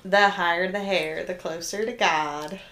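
light Southern accent impression; Miss Allie Lane. Co-host quoting a Southern saying, Southern accent. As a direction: recite it like a Southern friend, in accent. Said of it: "Miss Allie Lane".

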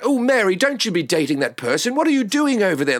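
lightly put-on British accent, lilting up high; British rom-com friend. Posh friend teasing Mary in a rom-com, British accent. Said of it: "you, you, you're British".

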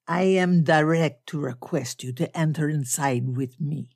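put-on lightly accented Blackbeard-type formal speaker; measured, ceremonious foreign-gentleman delivery; stilted foreign gentleman. Bearded foreigner inviting an officer inside, lightly voiced formal stiffness.

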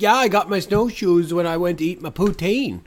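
lightly put-on Canadian accent, joking; mock Canadian accent. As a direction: tease with a hint of a Canadian accent. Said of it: "say something like".

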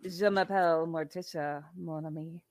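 low, soft French as Morticia; speaking French. Shown as a demonstration. Asked by a viewer to speak French, low French introduction. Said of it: "asking me to speak French".

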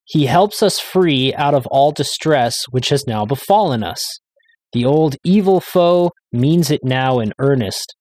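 slow, measured reading of a hymn text; solemn recitation. Acted. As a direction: read it like a stately declaration of faith. Reads his hymn translation aloud.

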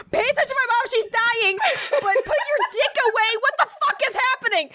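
high, breaking into laughter; fast, giggly rush of words; laughing. Real, not acted. Retelling her panic in the ER, laughing fast. Laughing, quoting own thoughts.

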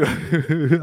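high imitated sobbing; mock crying. Rower seeing a table of food, imitated crying. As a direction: act out bursting into tears, half laughing. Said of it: "I started crying".

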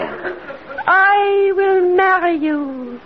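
laughing vow. Acted. Hypnotized girl repeating vow.

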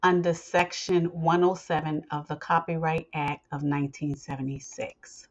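measured, formal legal reading; formal disclaimer read. Acted. Host reading listeners the copyright disclaimer, formal read.

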